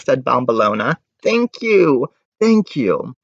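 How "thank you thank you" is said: put-on grateful girl.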